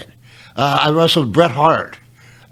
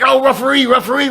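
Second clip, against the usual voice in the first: high, whiny mock plea to the referee; mocking whiny crowd; 9 semitones higher, faster than usual. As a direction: whine it up high like a helpless fan. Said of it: "not like".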